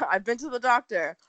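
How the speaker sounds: sore throat voice; swollen tonsils voice. Real, not acted. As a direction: talk through swollen tonsils. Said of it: "I have tonsillitis".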